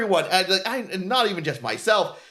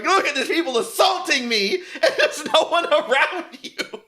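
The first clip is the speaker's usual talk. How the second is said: higher, laughing imitation; mock victim complaint; 6 semitones higher than usual. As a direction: complain through laughter, mockingly. Mocks a self-made victim, laughing.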